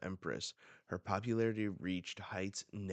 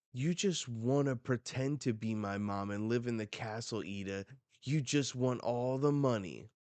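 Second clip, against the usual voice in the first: raised, higher accusing voice; mock indignant outburst; acted angry accusation; 3 semitones higher, 4 dB louder than usual. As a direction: play a resentful kid lashing out.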